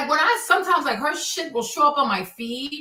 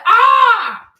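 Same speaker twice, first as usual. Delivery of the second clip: high, loud yell of frustration; big frustrated shriek; exasperated scream; 10 semitones higher, 12 dB louder than usual. Retold or imitated. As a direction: scream "ah" at full voice.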